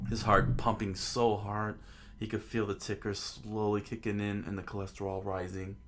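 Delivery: measured narrator reading aloud; understated storyteller; story narration. A narrator's reading. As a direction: narrate the scene evenly.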